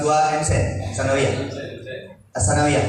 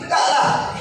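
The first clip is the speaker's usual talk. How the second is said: raised, bright voice of a father holding back tears; father's brave send-off, half-shouted; cheerful father farewell; 4 semitones higher than usual. Retold or imitated. Father sends son off, cheering.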